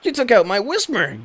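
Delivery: whiny defeated trainer; annoyed trainer. Acted.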